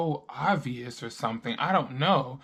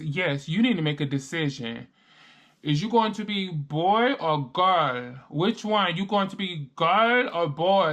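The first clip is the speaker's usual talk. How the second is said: imitating a Venezuelan accent; 3 semitones higher than usual. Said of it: "her accent".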